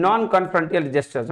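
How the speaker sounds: reading the question out slowly, word by word. Shown as a demonstration. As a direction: read it out slowly for the class. Reads option slowly. (धीरे-धीरे प्रश्न पढ़ना)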